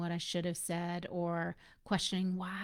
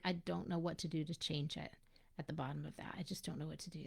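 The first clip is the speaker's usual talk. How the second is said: soft, low, hopeless whisper; helpless whisper; 3 semitones lower, 7 dB quieter, faster than usual. Retold or imitated. A mom at rock bottom whispering despair. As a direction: barely breathe it, defeated.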